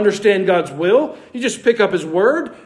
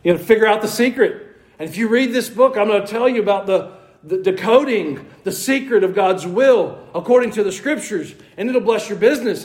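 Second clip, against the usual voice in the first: mock sales pitch; 3 semitones higher than usual. Preacher imitating authors selling secret books, mock sales pitch. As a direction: sell the miracle book, mockingly.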